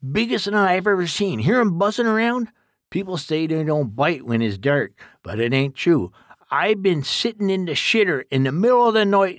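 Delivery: put-on folksy old man warning his helper; rustic old exterminator. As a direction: play a blunt country codger giving orders. Duke explains wasp nest.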